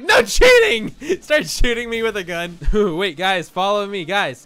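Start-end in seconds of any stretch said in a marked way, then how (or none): 0.0-0.9 high yelled mock scolding; hammed-up scolding yell; mock angry shout. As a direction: shout it like a bossy player. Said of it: "He's like".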